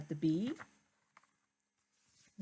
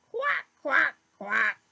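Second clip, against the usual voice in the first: high, loud quacks; duck quacking; 6 semitones higher, 8 dB louder than usual. Acted. Duck answers.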